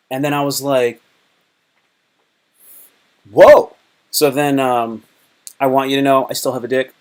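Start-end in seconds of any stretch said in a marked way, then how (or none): 3.3-3.8 stunned whoa. Retold or imitated. Stunned reaction to dad.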